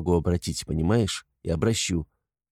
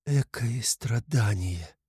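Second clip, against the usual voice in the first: slow, softer cry of pain; drawn-out softer lament; anguished wail; 5 dB quieter, much slower than usual. A narrator's reading. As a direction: let the suffering tear out slowly. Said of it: "вырвался мучительный вопль у Сони".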